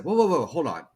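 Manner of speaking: hammed-up surprise at a car repair; mock amazement. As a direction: play it like it's a miracle. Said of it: "started catching on what I was doing".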